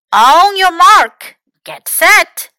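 loud, high race-start call; shouted starter's call for a race; cried out. A narrator's reading. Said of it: "cried Fox".

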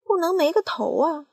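high, loud complaint; aunt shouting at the peach; crying out. Acted. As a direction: protest it up high. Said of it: "叫道".

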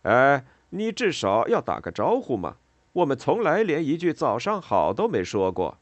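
loud, high-pitched shouted complaint; calling out. A narrator's reading. Gatekeeper shouting at worker who ignored him, calling out. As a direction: holler after them, pitch swinging up high. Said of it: "菲利普对着他喊".

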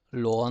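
second 罗 as "lô", no w glide; Hokkien reading. Shown as a demonstration. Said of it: "罗呢念成罗".

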